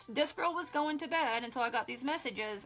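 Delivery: loving voice. Real, not acted. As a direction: speak with tender love. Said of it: "most loving voice".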